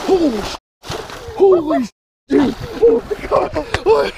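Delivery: high, loud ecstatic screaming; yelling at a horse race. Real, not acted. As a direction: scream with pure disbelief and joy. Huge fish just landed, screaming.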